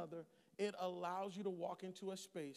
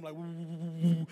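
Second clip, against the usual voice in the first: womb noises; 5 semitones lower, 8 dB louder than usual. Retold or imitated. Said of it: "making up noises".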